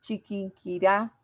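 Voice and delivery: Chiquinquirá drawn out slowly to a stressed RÁ; slow demo, landing on the end of Chiquinquirá; Chiquinquirá with the force on its final syllable; stress on last syllable. Shown as a demonstration. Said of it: "es la que lleva la fuerza".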